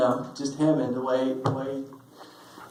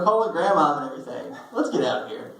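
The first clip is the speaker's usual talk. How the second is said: laughing tease. Retold or imitated. Ben teasing, laughing.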